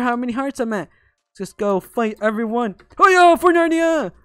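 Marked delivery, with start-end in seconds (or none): 3.0-4.1 high, loud charging yell; mock battle cry. Gamer rushing everyone on the map, mock battle cry. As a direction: yell it like a playful war cry.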